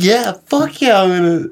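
high, loud indignant comeback; retold pissed-off defiance. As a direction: act out firing back at the teacher. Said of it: "I was all pissed".

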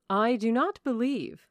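mildly amused, measured reply; good-humoured. A narrator's reading. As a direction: object with a gentle smile. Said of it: "with a good-humoured smile".

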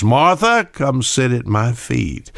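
a hint of Jesus calling gently; calling Martha.

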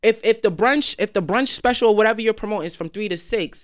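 real anger rising in the voice; heated rant. Real, not acted. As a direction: vent hard about the table. Venting anger at the promoter.

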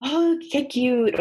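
high, slow mock Spanglish gushing; drawn-out mock gushing; Spanglish valley girl. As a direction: coo it like a border-town teen mixing languages. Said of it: "or they'd be like".

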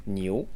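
niu said as one syllable with a rising tone; Mandarin word demo. Shown as a demonstration. Teacher introducing the word for cow, demonstrating niu. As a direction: say niu with the tone climbing. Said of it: "that we'll teach you today".

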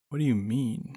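Daisy cuts in to challenge Milo; quick retort. A narrator's reading. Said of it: "replied Daisy quickly".

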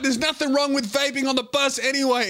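high, defiant whine; a girl defending her vaping; indignant teen. Retold or imitated. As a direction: protest like a bratty teen.

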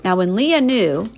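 put-on reading to children. Reading picture book to child.

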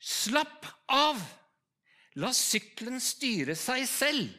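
high and loud, then a slow, calm order; a strange voice heard inside a motorcycle helmet. Retold or imitated. Voice in the helmet calming a panicking rider, loud then slow. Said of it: "det er noen som sier".

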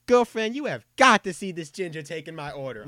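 put-on high, loud gushing old-lady voice; excited old lady. Old lady on the phone tells her friend about the redhead, high loud gush. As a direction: squeal it like a thrilled granny on the phone. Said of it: "She goes".

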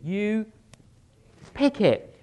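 firm emphatic answer; pick it. Acted. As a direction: land the answer hard. Answer to his own question.

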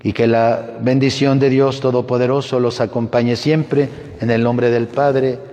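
earnest blessing prayer. Acted. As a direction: pray over the team, steady. Priest leads blessing prayer.

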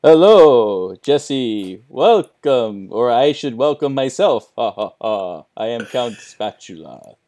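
spooky Count voice with "ha, ha, ha"; lightly voiced vampire count; low haunting voice. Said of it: "You sound spooky".

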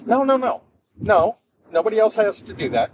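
high-pitched, insistent denial; retold quick reassurance. Boss answering employee's question about weekly check-ins, insistently reassuring.

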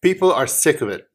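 mock exasperated. Mock complaint.

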